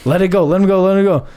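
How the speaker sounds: retold urgent pleading. Friend urges buddy to release the man, retold urgent plea. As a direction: imitate talking a friend down.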